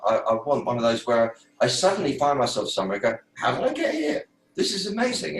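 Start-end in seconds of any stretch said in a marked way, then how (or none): 3.3-5.4 much higher, laughing in amazement; amazed. Pretend. Picturing a sudden miracle, delighted and amazed. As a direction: marvel with a giddy laugh.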